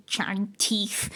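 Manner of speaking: whispering. Real, not acted. Whispered aside.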